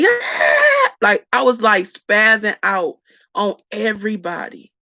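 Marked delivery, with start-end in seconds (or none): 0.0-0.9 sudden high loud yell; snapping at mom. Retold or imitated. Snapping at her mom over a little thing, loud outburst. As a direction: blurt it out, way higher and louder.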